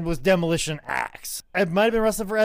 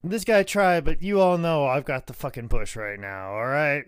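Crush; 6 semitones lower than usual. Acted. Speaks as Crush over the beaten jobber.

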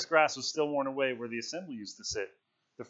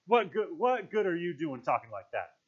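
raised, scolding protest; shrill; 6 semitones higher than usual. A narrator's reading. Piggy rebukes Ralph for his talk, shrill. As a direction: scold him in a higher voice. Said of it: "said Piggy shrilly".

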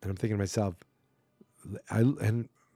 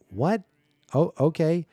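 high, louder incredulous reaction; mock disbelief; 6 semitones higher, 6 dB louder than usual. Friend hearing a crazy confession, mock stunned disbelief. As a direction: play taken aback, then warily going along.

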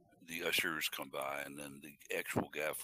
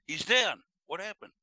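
announcer shout; 13 semitones higher, 12 dB louder than usual. Retold or imitated. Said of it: "that would have been fun".

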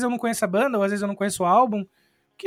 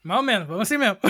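hiccuping; faster than usual. Real, not acted. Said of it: "deu soluço".

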